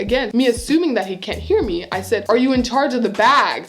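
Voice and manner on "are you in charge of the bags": raised voice so he hears; louder, clearer repeat; speaking louder. Retold or imitated. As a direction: project the question across the room. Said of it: "Like, speaking louder".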